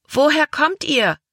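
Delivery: put-on a girl on the shore shouts to the children on deck; girl calling. A narrator's reading. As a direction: call up to the boat like a curious little girl. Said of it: "rief ein Mädchen".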